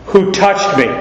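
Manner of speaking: "Who touched me?" pitched high, stress on WHO; emphatic. Acted. Christ to the denying disciples, emphatic high WHO. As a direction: hit a high WHO, falling to "me". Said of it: "since Christ is so emphatic".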